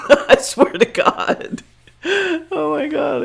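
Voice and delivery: high-pitched laughing disbelief. Real, not acted. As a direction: laugh through it, voice jumping high.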